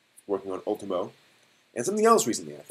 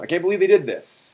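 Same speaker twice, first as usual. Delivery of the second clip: higher and louder, a hammed-up fan gasp; mock outraged fan; 7 semitones higher, 5 dB louder than usual. Host mocking an outraged anime fan, in a hammed-up disbelieving cry. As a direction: play a fan who can't believe what the studio did. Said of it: "You know".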